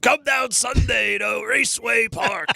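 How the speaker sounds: slow, drawn-out monster-truck ad announcer voice. Describing how he sounded, the speaker imitates the monster truck announcer guys. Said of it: "he sounded like the monster truck uh, guys".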